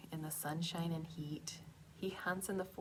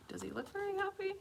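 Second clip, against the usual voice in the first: whispering; much faster than usual. Real, not acted. Question to children.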